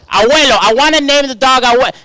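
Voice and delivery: put-on high, loud little girl voice; little daughter's voice. Daughter telling dad the dog's name, high child voice. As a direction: play a three-year-old asking for a dog name. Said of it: "she goes".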